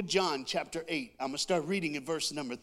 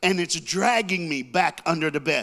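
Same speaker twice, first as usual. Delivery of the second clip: panicked retelling; 5 dB louder than usual. Retold or imitated. Panicked climax of monster story.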